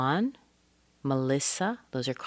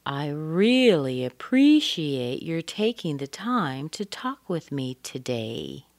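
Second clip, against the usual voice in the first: slow model read; slower than usual. Shown as a demonstration. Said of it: "slow model take".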